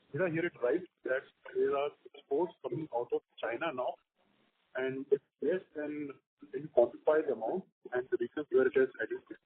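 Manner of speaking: quiet and muffled, like through a hand; muffled speakerphone voice. Real, not acted. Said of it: "your line was muffled".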